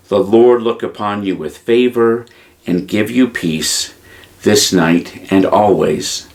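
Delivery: a gently spoken benediction; prayer blessing. Acted. Leads a closing blessing.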